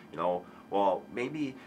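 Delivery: ordinary talk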